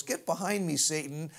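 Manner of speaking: understated, at everyday pitch and level; offhand rebuke. Retold or imitated. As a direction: brush off an intruder in passing. Replayed as aside to Satan.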